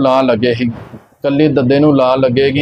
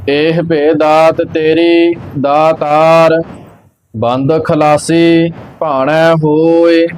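slow, measured sacred recitation; scripture recitation; much slower than usual. Acted. Teacher reciting Gurbani for learners, slow measured chant-like reading. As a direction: recite evenly, drawing out the line endings.

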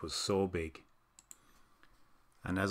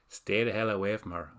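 spat; 4 dB louder than usual. Acted. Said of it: "I spat".

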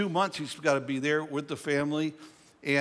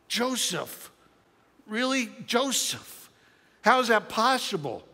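incredulous brothers; 4 semitones higher than usual. Retold or imitated. Brothers' disbelief acted out.

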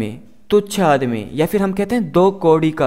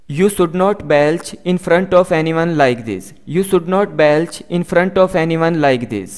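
very slow, careful English for learners; slow model sentence; much slower than usual. Shown as a demonstration. Teacher reading the example slowly to students. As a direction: spell each word out slowly for the class. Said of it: "teacher model sentence".

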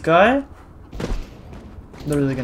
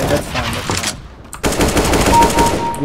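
slow drawn out; 3 semitones lower, much slower than usual. Real, not acted. Drawn out self-soothing.

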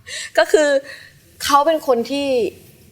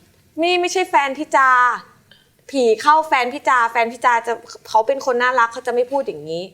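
calm; 4 semitones higher than usual. Retold or imitated. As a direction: soothe the demon out of a girlfriend. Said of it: "ก็ยังเย็นนะ".

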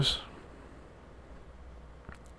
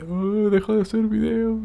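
mock hater; 11 semitones higher than usual. Mocking hater comment.

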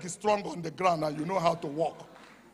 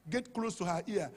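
ordinary delivery

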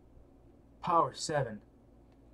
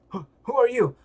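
startled; 7 semitones higher, 6 dB louder than usual. Acted. Voicing startled game character.

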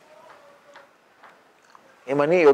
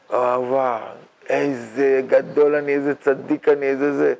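mock self-admiration. Teacher imagines us praised by God, mock self-admiration. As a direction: savor your own greatness, tongue in cheek.

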